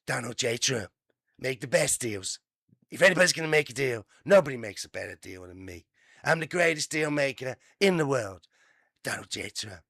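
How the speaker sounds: a hint of a boastful tycoon, fast then fading; lightly voiced bragging deal maker; Trump impression. Newsreader parodies the president's bragging, half-hearted impression. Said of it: "I know it's a bad impression".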